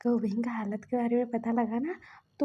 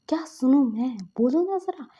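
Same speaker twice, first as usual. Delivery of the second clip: angry, louder; 2 semitones higher, 6 dB louder than usual. Acted. Furious elder brother confronting his friend, louder angry repeat. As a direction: snap the repeat harder. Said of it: "सीजन बहुत गुस्से में थे".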